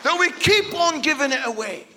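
loud, sung-out preaching over music; full-force sermon cry; preaching climax. Real, not acted. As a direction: swell it like a call to the congregation.

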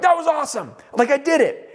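high, elated cheer; thrilled. Retold or imitated. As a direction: burst out with triumph at having done it. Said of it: "like so excited".

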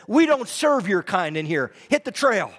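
sneering. Retold or imitated. Shopkeeper turning away the woman at the counter, sneering. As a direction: imitate a contemptuous brush-off. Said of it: "sneered at her and said".

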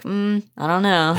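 slow, hesitant mock doubt; doubtful. Mom staring at her transformed child, slowly doubtful. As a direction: imitate someone staring, unconvinced, drawing it out. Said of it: "she's just staring at him like".

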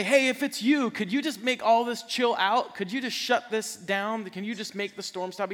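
loud, high-pitched pleading, easing off toward the end; Peter's mock plea. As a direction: call it out over a storm, half-exasperated. Imagined plea of Peter in the storm.

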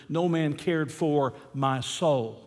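"my soul" set apart, slow and weighty; stress on MY SOUL. Shown as a demonstration. Preacher shows congregation the last two words, stressing "my soul" slowly. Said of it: "emphasize those last two words".

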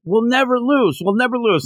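high-pitched imitation of excited students; mock boasting. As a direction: chant it like an overconfident team, lightly hammed-up.

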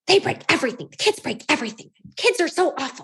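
exasperated grumble, voice a touch off her own; mild imitation of a fed-up parent; mock fuming. Mother fuming at kids over broken dryer, mild mock anger. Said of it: "I was, like, fuming".

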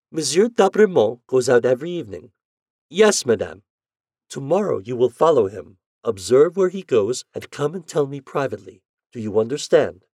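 put-on a mistress briefing her errand boy; Natalie giving orders. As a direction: instruct the boy firmly, up high.

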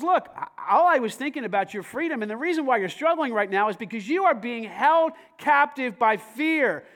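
a lightly voiced God, loud and urging; voicing God. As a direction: speak as God urging Jeff to take a risk. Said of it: "But he says".

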